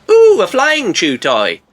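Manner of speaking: high, drawn-out excited cry; slow mock wonder, opening high; delighted crocodile. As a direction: marvel like an excited pet.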